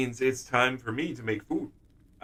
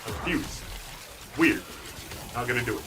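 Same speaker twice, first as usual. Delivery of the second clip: softer, weird monster voice; creepy monster voice; 6 dB quieter than usual. Shown as a demonstration. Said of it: "Creepy, weird monster voice".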